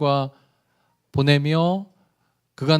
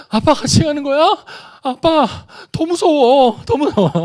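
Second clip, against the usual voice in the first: put-on much higher, louder wailing little boy; scared child; 11 semitones higher, 6 dB louder than usual. Son reacting to dad coming too, higher wailing child voice. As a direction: whine like a boy who is even more scared.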